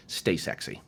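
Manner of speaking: low, soft, breathy farewell; sultry sign-off. Real, not acted. Coach signing off to viewers, sultry. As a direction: purr the goodbye.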